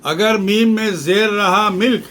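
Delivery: teacher contrasts a second reading of ملک; vowel emphasis. Shown as a demonstration. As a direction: stress the zer in ملک as milk. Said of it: "معنی کس طرح بدل جاتے ہیں".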